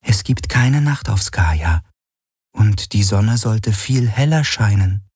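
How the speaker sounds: slow, breathy whisper from a shadow; whispering shadow creature. A narrator's reading. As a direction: answer slowly in an eerie whisper. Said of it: "hörte er die Schattenhelix flüstern". (langsam flüsternde Schattenstimme)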